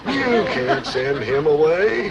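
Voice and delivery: slow, drawn-out appeal; milk it slowly for sympathy; gooey sympathetic plea. Shown as a demonstration. Dad finishing his demonstration plea, slow and gooey. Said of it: "big, gooey globs of sympathy".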